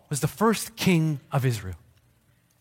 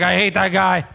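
mock grumble; 3 dB louder than usual. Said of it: "You're like".

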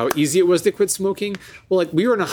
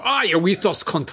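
put-on Scottish accent; 4 semitones higher than usual. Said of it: "the Scottish bugs then".

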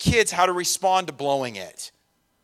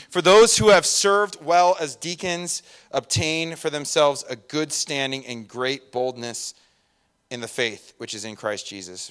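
scripture reading. Acted.

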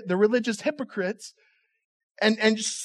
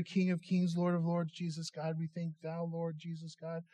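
mock filler prayer; 3 semitones lower, 11 dB quieter than usual. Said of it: "who use the word God every three words in a prayer".

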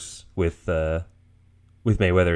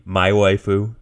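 dubbed line; slower than usual. Retold or imitated. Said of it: "that's how they dubbed it into Japanese".

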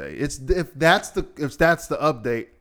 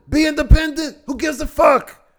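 much higher and louder, shouting back at them; exasperated outburst; 9 dB louder than usual. Real, not acted. Ranting podcaster yelling back at a poster. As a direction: yell it like you're fed up.

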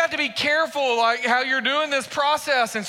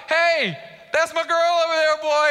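giddy, higher-pitched show-off call; giddy boyfriend; 6 semitones higher than usual. Acted. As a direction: act out a smitten guy bragging about his girl. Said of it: "he's all giddy".

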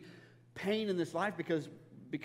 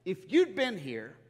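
blunt statement; 3 semitones higher, 7 dB louder, slower than usual. Retold or imitated. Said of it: "She just makes a statement".

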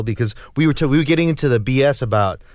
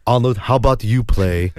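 lightly voiced Austrian action star telling his own story; a hint of Austrian-accented impression; Arnold Schwarzenegger; 3 semitones lower than usual. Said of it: "Arnold Schwarzenegger's".

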